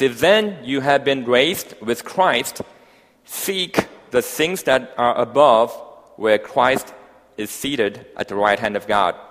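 slow, emphatic Bible reading; solemn, spaced-out proclamation of scripture. Real, not acted. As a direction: read the verse out deliberately, phrase by phrase. Reads scripture aloud.

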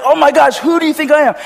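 high, loud imitation of a bowler; hammed-up outburst; mock passionate shout. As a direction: yell it like an overwrought champion. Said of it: "he's so passionate".

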